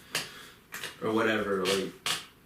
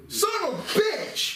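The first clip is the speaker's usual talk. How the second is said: much higher, laughing squeal; mock cursing through laughter. Mocking the store manager's curse while laughing. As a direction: shriek the curse while cracking up.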